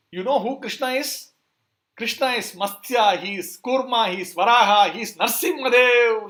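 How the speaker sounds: loud, high, building roll-call of names; acted fury, booming out each divine name; angry proclamation. Enraged Balram declares who Krishna is, angry shouted proclamation. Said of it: "he suddenly gets so angry".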